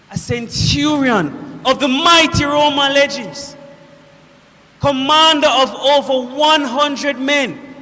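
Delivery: forceful boast of a Roman officer; proud declamation. Acted. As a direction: declaim it with military pride and force. Centurion proudly declaims his rank.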